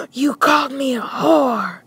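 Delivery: high, slow mock outrage ending in a scream; flipping out. Girlfriend to boyfriend after insult, mock flipping out. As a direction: draw it out, then shriek. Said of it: "then she flipped out again".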